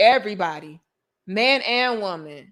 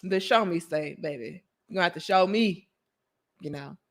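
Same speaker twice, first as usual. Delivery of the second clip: reading viewer comment; 3 semitones lower, 5 dB quieter than usual. Retold or imitated. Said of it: "Ma said".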